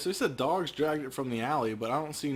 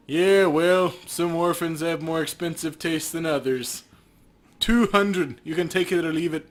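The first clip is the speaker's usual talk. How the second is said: greedy cop; 3 semitones higher, 5 dB louder than usual. Acted. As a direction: savour the offer like a crooked cop. Cop haggles.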